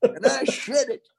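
very high, squeaky mock answer; put-on impression voice. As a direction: answer in a silly falsetto. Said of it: "just did it that way".

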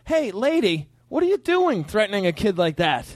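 mildly indignant challenge to a stranger; mock confrontation. Bystander scolding a mother threatening her kid, indignant. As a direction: call her out with stretched, rising emphasis.

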